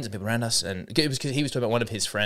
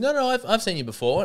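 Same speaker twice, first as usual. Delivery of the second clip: imitating Sam; 10 semitones higher than usual. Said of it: "He's like".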